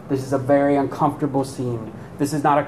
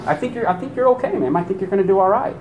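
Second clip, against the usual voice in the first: fast, higher, breezy sarcastic reassurance; mock reassurance; 4 semitones higher, much faster than usual. Preacher mocking false optimism about the woman's chances, sarcastic. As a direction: brush it off with fake cheer. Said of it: "Do you like her chances right now?".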